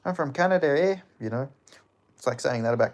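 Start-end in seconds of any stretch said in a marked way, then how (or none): 0.1-1.0 mock Canadian. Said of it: "Canadians shouldn't say "eh".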